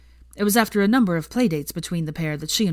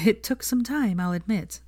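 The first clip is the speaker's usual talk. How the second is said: smiling; 5 semitones higher than usual. Acted.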